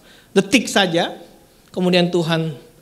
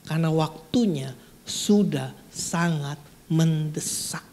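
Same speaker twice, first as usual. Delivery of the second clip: bisikan serius; 3 semitones lower, 5 dB quieter than usual. Real, not acted. Penekanan mendesak.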